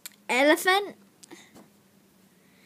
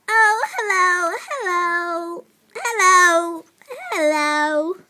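louder, calling hello into a toy phone; 4 semitones higher, 9 dB louder, slower than usual. Pretend. Kid answering a toy phone, loud calling hello. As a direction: answer the phone with a bright shout.

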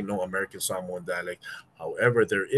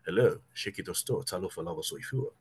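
James Bond Samoan accent; 2 semitones lower, 5 dB quieter than usual. Shown as a demonstration. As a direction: greet like a smooth Samoan spy. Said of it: "will sound like".

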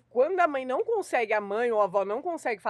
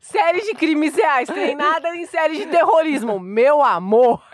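proud loud boast; 3 semitones higher, 9 dB louder, slower than usual. Real, not acted. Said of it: "boasting about training".

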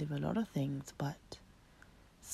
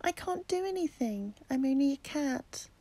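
upset kitten; 9 semitones higher than usual. Acted. Kitten pleads with mother.

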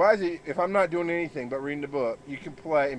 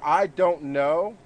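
slow, drawn-out mock of a sulky kid; dad mimicking his son's excuse, slow and mocking; 3 semitones higher, 4 dB louder, much slower than usual. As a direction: drag it out like a sullen child. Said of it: "means you're a retard moron".

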